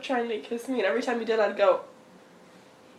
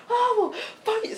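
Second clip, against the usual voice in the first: mock parental snark; 12 semitones higher than usual. Parents fighting imitated.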